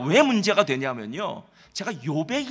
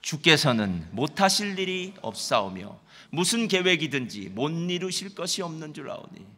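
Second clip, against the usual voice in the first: slow scripture reading; 4 semitones lower than usual. Shown as a demonstration. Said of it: "한번 사십이 장 이 절 말씀만 먼저 한번 읽어볼까요".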